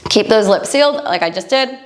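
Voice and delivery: right after a yawn; words through a yawn. Real, not acted. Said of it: "I might even yawn now talking about it".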